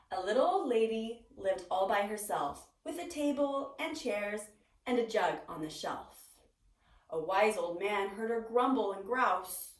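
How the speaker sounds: put-on lively read-aloud to children; story narration. A narrator's reading. Teacher reading a picture book to the class, lively storytelling. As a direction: tell it like a storybook for little ones.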